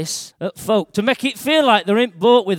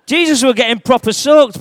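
laughing through the line, getting wet; 5 semitones higher, 7 dB louder than usual. Real, not acted. The speaker laughing as the spray hits him. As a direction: let the laugh break through.

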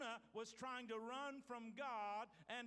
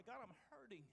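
higher, mock-anguished plea; battered cry; 6 semitones higher than usual. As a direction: cry out to God, lightly acted. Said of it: "God doesn't just hear the battered cry".

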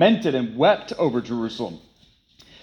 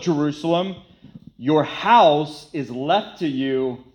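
slow lament; slower than usual. Acted. Jesus lament quoted, slow.

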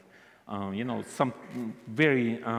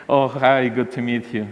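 excited greeting; 3 semitones higher, 6 dB louder than usual. Retold or imitated. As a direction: greet her like a fan meeting a star. A listener meeting Ina in person.

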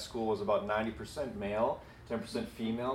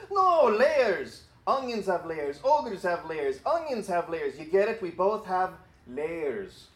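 higher, slow, hammed-up Scottish ogre voice; Shrek's Scottish accent; 8 semitones higher, 4 dB louder, slower than usual. Pastor acting Shrek explaining layers to Donkey in a put-on Scottish accent. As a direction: try a Scottish brogue, drawing out the layers. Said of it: "read this in the Scottish accent that Shrek has".

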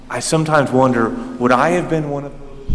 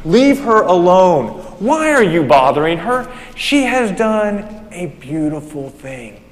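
firm Jesus rebuke; 3 semitones higher than usual. Retold or imitated. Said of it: "Jesus said".

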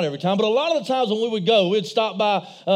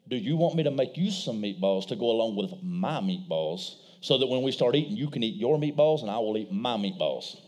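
soft coaxing dad; 10 semitones lower, 6 dB quieter than usual. Retold or imitated. Dad pleading with sons.

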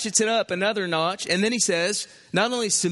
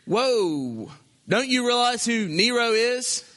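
higher, incredulous objector pleading with Peter; imagined objector; 3 semitones higher than usual. Retold or imitated. A worried believer challenging Peter, incredulous. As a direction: protest like a shocked church member. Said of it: "I can just hear somebody saying to Peter".

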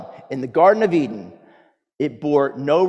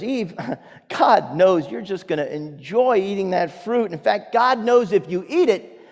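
tempting serpent; 4 semitones higher than usual. Acted.

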